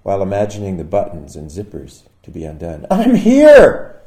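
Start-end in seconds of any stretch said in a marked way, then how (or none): 2.9-4.0 high, loud call into the house; a loud, eager announcing call; shouted arrival. Retold or imitated. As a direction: shout it up the stairs, hopeful. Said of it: "I shouted again".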